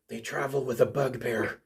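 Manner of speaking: low, hushed voice; whisper. Acted. Whispering voice overheard by the player, low and hushed. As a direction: drop to a soft, low murmur. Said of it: "you hear the whisper say".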